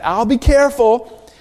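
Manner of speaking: lightly voiced carefree little boy; breezy boy's reply. Five-year-old Jimmy brushes off the warning, lightly voiced boy.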